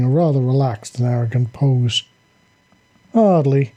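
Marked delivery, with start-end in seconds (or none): 3.1-3.7 with a smile. Acted. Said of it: "Jack said with a smile".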